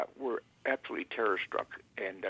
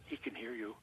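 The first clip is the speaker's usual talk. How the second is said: very soft, imitating a discreet warning; hushed aside, acting out a whisper; retold whisper; 15 dB quieter than usual. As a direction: drop right down as if whispering to a colleague. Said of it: "I could see her whisper to him".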